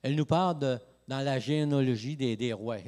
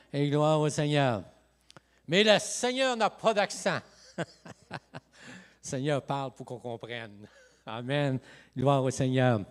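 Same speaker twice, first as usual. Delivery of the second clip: louder, emphatic praise to the Lord; 5 dB louder than usual. Real, not acted. Preacher capping his accent story for the congregation, loud praise. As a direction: drive the joke home with praise. Punchline: God has no accent.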